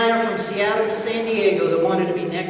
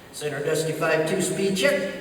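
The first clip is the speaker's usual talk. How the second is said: lightly imitated cool Navy pilot; 3 semitones lower than usual. Navy pilot asking center for a speed check, very cool. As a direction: play it cool over the radio. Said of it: "he talked very cool on the radio".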